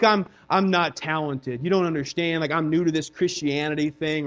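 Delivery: low, soft reluctant protest; mock excuse-making. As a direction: imitate a sheepish churchgoer making excuses. Voices a listener's excuses.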